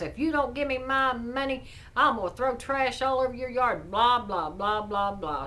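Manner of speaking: retold angry yell at the door, half-hearted; cussing out. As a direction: neighbour cussing at the door, imitated mildly. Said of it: "this woman starts cussing her out".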